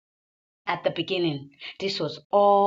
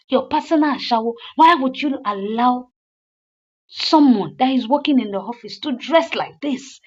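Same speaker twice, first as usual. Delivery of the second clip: higher, louder scolding; angry wife; 4 semitones higher, 3 dB louder than usual. Retold or imitated. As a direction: berate him for the affair. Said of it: "Crystal was like".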